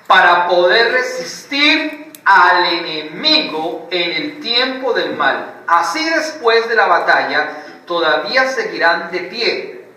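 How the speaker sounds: slow, solemn reading of the verse; scripture reading. Shown as a demonstration. Preacher reads Ephesians to the congregation, slow and solemn. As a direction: read the armour passage slowly and gravely. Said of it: "dice la palabra".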